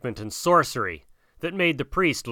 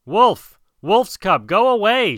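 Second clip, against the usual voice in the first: high, loud storyteller's shout; shouted denunciation; priest shouting; 8 semitones higher, 5 dB louder than usual. A narrator's reading. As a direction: drive him off with a raised cry. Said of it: "shouted the priest".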